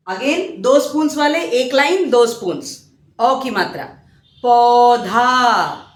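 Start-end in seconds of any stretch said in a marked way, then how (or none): 4.4-5.8 गीता drawn out very slowly, syllable by syllable; slow classroom enunciation; slow teaching demo. Shown as a demonstration. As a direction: spell out गीता slowly for children. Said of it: "ओ की मात्रा में आएंगे".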